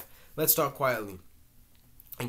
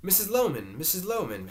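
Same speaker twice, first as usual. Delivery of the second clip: frantic calling, higher and louder; 8 semitones higher, 5 dB louder than usual. A narrator's reading. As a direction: call out for her in a frantic rush.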